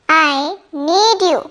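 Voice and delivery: deliberate slow classroom model; slow, careful repeat. Shown as a demonstration. Teacher repeating the sentence slowly for students. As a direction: say it slowly so learners catch each word. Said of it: "teacher models sentence twice".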